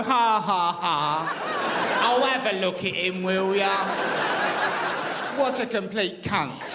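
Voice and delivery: jeering laugh at a bald man; mocking laughter. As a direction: laugh him down together. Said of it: "We all turn around as one and we go".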